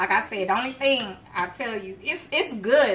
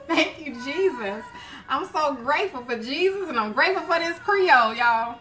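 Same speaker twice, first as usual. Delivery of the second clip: higher-pitched, grateful praise; stirred up; 5 semitones higher than usual. Real, not acted. Cook thanking Jesus for song and food, stirred up. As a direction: give thanks with rising excitement. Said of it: "That song just got me stirred up".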